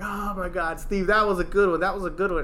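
a hint of fawning coworkers; mocking coworkers. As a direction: play the guys overpraising a lame joke. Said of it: "a few of the guys like".

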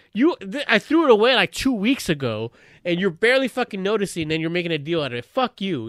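mildly heated, indignant retort; mad inner rant. Retold or imitated. Husband fuming in his head about the corn, mad retort. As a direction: vent silent outrage at your wife. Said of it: "And I got so mad".

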